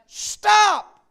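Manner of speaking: high, loud cry of stop; a single high, ringing stop; shouted stop. Retold or imitated. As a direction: call after the army to halt.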